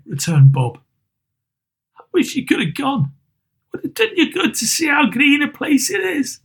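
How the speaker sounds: father trying to stay cheerful; Bob Cratchit. Acted. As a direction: keep your voice up for the family's sake. Bob Cratchit voiced in story.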